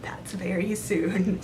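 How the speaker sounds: whisper. Real, not acted. Whispered aside.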